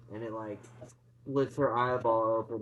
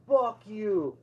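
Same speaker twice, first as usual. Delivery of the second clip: mock defiant curse; 8 semitones higher, 4 dB louder than usual. Aunt defiant to monster.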